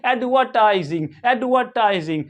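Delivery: एडवर्टाइजिंग with a silent R; British pronunciation. Shown as a demonstration. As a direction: say एडवर्टाइजिंग British-style, no R before the T. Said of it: "British English में क्या पढ़ेंगे".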